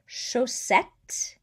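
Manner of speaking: CHAUSSETTE with a drawn hissed S in the middle; S sound. Shown as a demonstration. Teacher giving a double-S example, S sound. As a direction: hold the hiss inside chaussette. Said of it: "an S sound".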